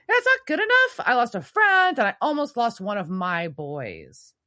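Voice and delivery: shouted high and loud in indignation; outraged mother defending her boys, shouting; angry retort. Retold or imitated. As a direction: scold him at the top of the voice. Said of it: "And she's like".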